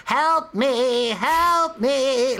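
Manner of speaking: high, strained "help me" plea; eerie high wail of a bedridden sister; twisted sister moaning.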